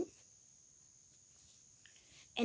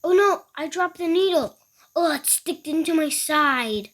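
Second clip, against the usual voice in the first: alarmed; 4 semitones higher, 4 dB louder than usual. Acted. Character dropping needle.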